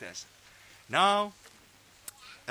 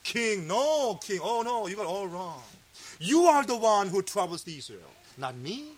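steady, unbowed rebuttal to the king; firm denial. Retold or imitated. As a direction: turn the blame right back on him. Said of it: "No, he said".

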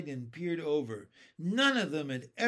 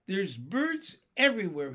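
loud exclamation of amazement; astonished cry; 3 semitones higher, 6 dB louder than usual. Acted. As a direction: cry out what you see. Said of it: "he cried".

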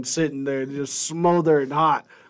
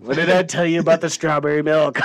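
mock scolding parent.

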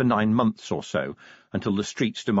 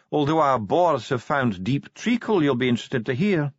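higher-pitched, measured dwarf voice; Ardent the composed dwarf; 8 semitones higher than usual. A narrator's reading. Dwarf official explains the mining to the commander, composed. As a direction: play a self-assured dwarf official, pitched up.

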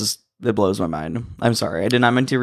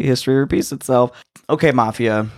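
breathing heavily into the mic; audible heavy breaths between words. Real, not acted. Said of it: "You're breathing heavily into the mic".

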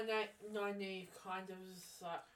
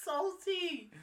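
higher and louder, slow, through laughter; laughing; 10 semitones higher, 9 dB louder, slower than usual. Real, not acted. Cohost gleefully judging Nynaeve, laughing. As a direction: laugh the words out slowly.

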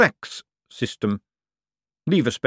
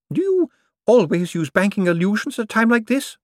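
put-on much higher, cackling old woman voice; cheeky old lady; 13 semitones higher, 5 dB louder than usual. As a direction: play a sharp old dame with no fear. Topsy teases Death.

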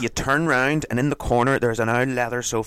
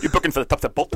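quick Glaswegian; 4 semitones higher, faster than usual. Retold or imitated. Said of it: "quick Glaswegian".

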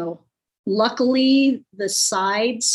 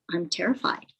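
quietly terrified; 6 dB quieter than usual. Retold or imitated. To the joking start guy, a soft scared admission. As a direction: confess it under your breath.

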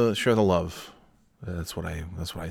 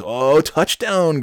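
excited; 8 semitones higher, 6 dB louder, much slower than usual. Real, not acted. Reacts to live football score.

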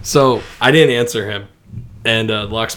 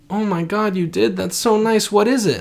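high-pitched, gushing grandma voice; delighted grandma; 9 semitones higher than usual. Retold or imitated. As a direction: coo with pleased surprise at the gift.

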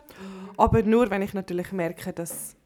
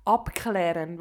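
"abklären" spoken distinctly as one stressed word; emphatic enunciation; 4 semitones lower, slower than usual. Shown as a demonstration. Helping a customer understand the word, "abklären" carefully stressed. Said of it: "dann betone ich wie so Wörter".

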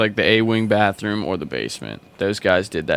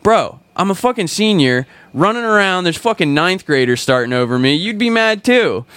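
frustrated outburst; 8 semitones higher, 4 dB louder than usual. Retold or imitated. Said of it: "And I'm like".

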